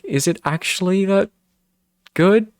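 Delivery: high squeaky mock disbelief; airy high voice, playing at disbelief; mock incredulous self. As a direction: pitch way up, mocking your own doubt. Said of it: "but I'm like".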